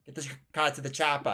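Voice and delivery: lightly voiced Austrian action-star impression; Schwarzenegger. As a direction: quote it in a mock Austrian accent. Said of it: "really close to Schwarzenegger".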